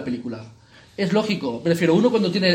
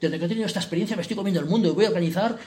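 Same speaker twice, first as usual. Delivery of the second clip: mock boastful Peter; 2 semitones higher than usual. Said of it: "Pedro es un toro y tal".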